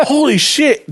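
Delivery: like the penny just dropped; mock shock. Retold realization, pitch jump.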